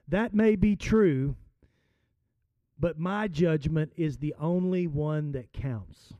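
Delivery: unhurried, settling umpire; mild, steady umpire's verdict; calm. Retold or imitated. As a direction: calmly lay down the final word. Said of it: "very calmly said".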